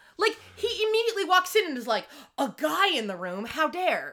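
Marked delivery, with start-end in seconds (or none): 2.4-4.1 slow, affronted, jealous outrage. Retelling a scene where a boyfriend walks in: imitating a jealous boyfriend. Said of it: "Is immediately jealous".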